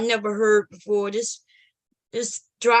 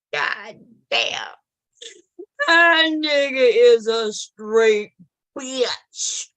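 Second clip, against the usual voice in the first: laughing while talking; slower than usual. Real, not acted. Laughing at clip.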